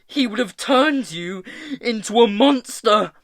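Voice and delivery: high, loud, anguished tirade; distraught screaming. A narrator's reading. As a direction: rail at him in furious despair. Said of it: "screamed Hester".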